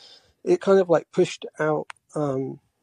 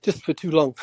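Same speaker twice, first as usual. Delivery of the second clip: breathless and wheezing; wheezing after the stairs; wheezy voice; 3 semitones higher than usual. Real, not acted. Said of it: "I am wheezing".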